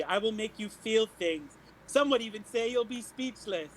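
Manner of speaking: grand stage announcement to the crowd; showy bard. Acted. Bard introducing herself to the tavern crowd, grandly. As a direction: puff yourself up like a star performer.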